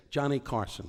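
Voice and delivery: rising showbiz intro of Johnny Carson; a hint of an announcer. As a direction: lightly announce the name like a host. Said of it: "I used to say".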